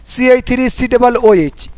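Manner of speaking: formula read as one run, c-h-three-c-double-o-h; teacher demonstrates the wrong reading of C H three C double O H, run straight through; wrong way, run together. Shown as a demonstration. Teacher to students, showing the wrong way: sी H three C double O H read without a pause. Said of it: "ये गलत तरीका है पढ़ने का".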